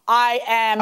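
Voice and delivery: measured, deliberate lead-in on "I am"; "I am" held apart for emphasis; emphatic finality. Real, not acted. Judge cutting off both litigants, "I am" said with emphatic finality. Fed-up judge ending the case.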